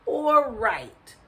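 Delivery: puzzled, rising weighing of options; pondering. A narrator's reading. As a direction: waver aloud between the two choices. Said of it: "he pondered".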